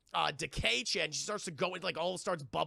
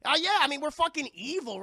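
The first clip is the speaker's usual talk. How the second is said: much higher, much louder gleeful gloat; gloating villain; 9 semitones higher, 8 dB louder than usual. Retold or imitated. Woodrue admitting his weapons, loud hammed gloat. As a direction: crow it proudly. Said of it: "And he's like".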